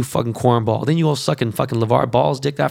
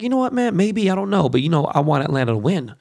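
retold reply, high; 5 semitones higher than usual. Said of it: "I kinda was like".

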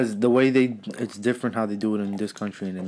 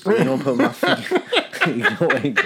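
breaking into laughter mid-line; laughing; 3 semitones higher, 3 dB louder than usual. Real, not acted. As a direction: giggle between the words. Laughing mid-sentence at own joke.

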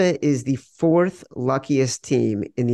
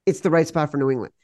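mock agreement; faster than usual. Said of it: "makes me say".

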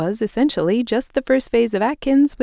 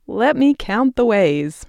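theatrical Shakespeare quote; 4 semitones higher than usual. Retold or imitated. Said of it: "as Shakespeare would say".

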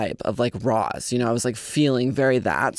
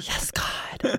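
airy, eerie ghost whisper; haunt the mic, voice all breath; 7 dB quieter than usual. Pretend. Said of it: "I feel like I should do that in my ghost voice".

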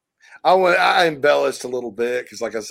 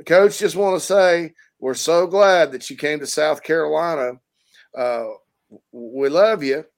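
caller voice. Retold or imitated. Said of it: "Peter, you're on".

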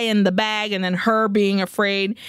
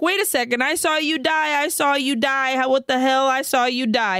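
retold freak out; 4 semitones higher than usual. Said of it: "Jamie freaks out and she's like".

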